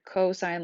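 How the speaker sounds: "cosine" with co as in co-worker; "cosine" with long o and long i; pronunciation demo. Shown as a demonstration. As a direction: say "cosine" as co plus sign. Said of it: "which is pronounced like the word".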